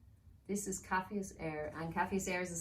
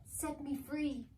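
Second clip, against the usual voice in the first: slow, higher eerie plea; pleading elf; 9 semitones higher, much slower than usual. Acted. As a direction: draw it out like a trapped spirit.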